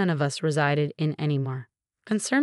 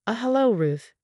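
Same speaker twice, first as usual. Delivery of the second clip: sister on the phone; 5 semitones higher than usual. A narrator's reading. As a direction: greet her hesitantly as the sister.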